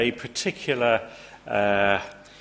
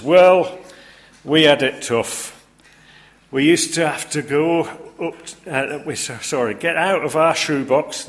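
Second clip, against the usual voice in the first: high, loud boasting Yorkshireman; Yorkshire accent; 5 semitones higher, 7 dB louder than usual. Retold or imitated. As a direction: brag about hardship in Yorkshire accent. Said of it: "The little sketch finishes".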